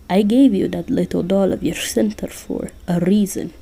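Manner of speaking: put-on lightly accented Russian Santa, scolding; bad Russian accent. Santa scolding Jack about his fairy tales, bad Russian accent. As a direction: lecture in a rough Russian accent. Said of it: "I'm terrible at doing a Russian accent".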